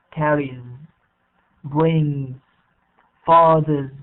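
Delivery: "carries, brings, fathers" one by one, each ending in a buzzed "z"; voiced Z ending. Shown as a demonstration. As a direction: let the last sound of "carries", "brings" and "fathers" buzz as "z". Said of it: "we pronounce it as Z".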